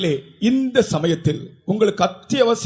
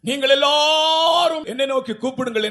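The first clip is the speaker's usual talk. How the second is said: ringing call; 3 semitones higher than usual. Acted. Preacher voices God calling nations.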